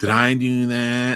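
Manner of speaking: very slow, drawn-out, each word dragged out. Joking about a wholesome sitcom character turned sinister: Urkel voice. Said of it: "Urkel's like".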